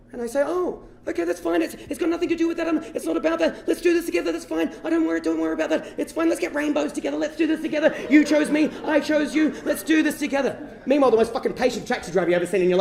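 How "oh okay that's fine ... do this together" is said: high, gabbled acted comforting; over-keen reassurance, pitched high; flustered reassurance. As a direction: backpedal eagerly to soothe someone hurt. Hurriedly reassuring the crying sailor.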